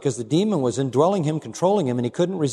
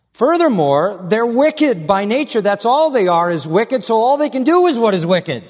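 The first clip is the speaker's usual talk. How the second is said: full-force preaching; 9 semitones higher, 6 dB louder than usual. Acted. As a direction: hammer it home from the pulpit.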